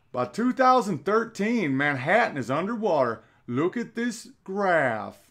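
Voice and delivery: mock a Southern politician's dire forecast; Al Gore impression. Mocking Gore presenting his flood graph, Southern accent. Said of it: "I'm just doing a generic Southern accent".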